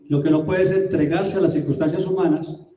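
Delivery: usual speaking voice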